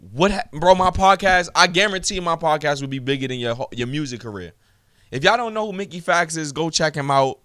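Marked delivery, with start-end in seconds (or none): 0.1-4.5 heated. Real, not acted. Angry rant continues.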